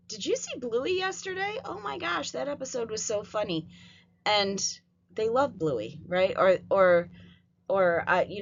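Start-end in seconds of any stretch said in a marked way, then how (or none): 0.1-3.7 put-on much higher, bubbly kid-friendly excitement; teacher switching to cheerful cartoon talk, much higher; sudden excited chatter. Shown as a demonstration. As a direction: gush about Bluey to distract an upset child. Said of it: "all of a sudden I'd be like".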